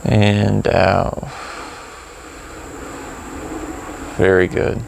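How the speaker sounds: calm breathing cues with long pauses; guided meditation. Acted. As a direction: lead the breath unhurriedly, drawing out "and out".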